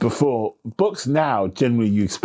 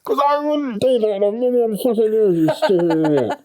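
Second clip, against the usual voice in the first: a fed-up character shouting back through the wall; indignant character yelling; 12 semitones higher than usual. Pretend. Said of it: "the muffled voice from the green room going".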